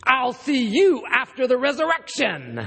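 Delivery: mock threat with a laugh in the voice; menacing punchline. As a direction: deliver the threat as a grinning punchline. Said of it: "he looks him in the eye, he says".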